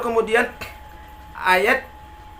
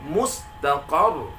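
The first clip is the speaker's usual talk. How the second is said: "Mustaqar" very slow, "qar" accented; "Mustaqar" drawn out, stressed on the last syllable; raised qaf syllable; much slower than usual. Shown as a demonstration. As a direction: lift and hold the end of "Mustaqar". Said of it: "menaikkan intonasinya di huruf qaf".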